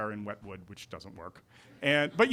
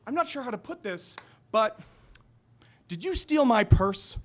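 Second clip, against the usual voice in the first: woman's voice; 8 semitones higher, 4 dB louder than usual. Retold or imitated. Mrs Archer accusing, high voice.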